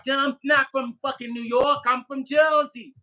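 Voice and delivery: annoyed Jersey retort. Retold or imitated. Jersey woman correcting a stranger on a plane, irritated. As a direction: snap back like an offended Jersey girl. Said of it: "They get mad".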